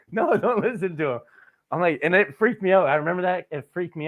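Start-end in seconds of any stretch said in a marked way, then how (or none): 0.1-1.2 high, loud mock protest through laughter; laughing dismissal. Grandma dismissing her husband's accusation, laughing protest. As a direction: wave it off loudly while laughing.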